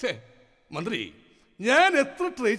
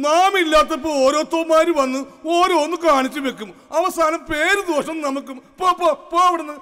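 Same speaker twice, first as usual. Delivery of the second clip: indignant scolding; 2 semitones higher, 6 dB louder than usual. Acted. King scolds minister angrily.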